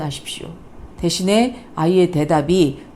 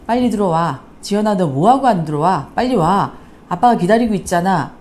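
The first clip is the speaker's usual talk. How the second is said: put-on louder, scolding mother calling her child home; a mother's annoyed scolding; irritated mom; 3 dB louder than usual. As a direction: snap at a late daughter with anger. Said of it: "화라고 하는 감정이 좀 섞여 있습니다".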